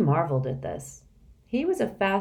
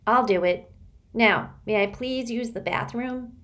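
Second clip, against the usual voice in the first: put-on timid boy; 6 semitones higher than usual. Sticky decides.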